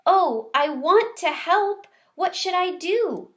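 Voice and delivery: high, loud and eager; keen to help right away; eager excitement. Acted.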